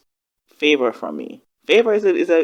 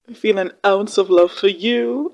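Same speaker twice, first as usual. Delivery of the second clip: slow, higher mimicry of a dramatic line; imitated line reading; 5 semitones higher than usual. Fan echoing the actress's favorite line, theatrical imitation. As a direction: mimic the actress, stretching the words. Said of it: "I love how she said that line".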